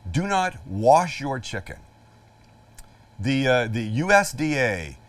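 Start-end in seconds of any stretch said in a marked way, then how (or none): 0.1-1.8 "do not wash your chicken" slowly and firmly stressed; emphatic warning. Real, not acted. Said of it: "I cannot stress this enough".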